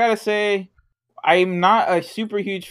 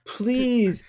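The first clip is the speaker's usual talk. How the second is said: Yato pleading; 6 semitones higher, 4 dB quieter than usual. Retold or imitated. Acting out Yato begging Yukine.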